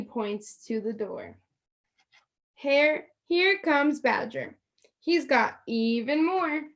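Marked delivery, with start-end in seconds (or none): 2.5-6.7 higher character voice. Acted. Character voice in story.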